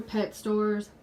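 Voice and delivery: winded, coughing through it; coughing, out of breath. Real, not acted. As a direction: cough then breathless words. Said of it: "I'm sorry, I'm out of breath".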